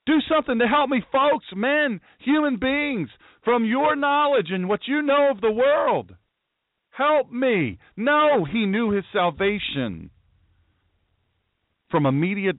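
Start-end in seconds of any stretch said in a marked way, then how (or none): 0.1-7.8 mock panicked plea. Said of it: "doesn't say he did".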